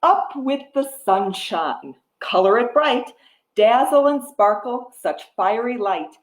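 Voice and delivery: rhythmic picture-book reading; reading to a toddler. Acted. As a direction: read the rhyme to little ones. Reads picture book rhyme.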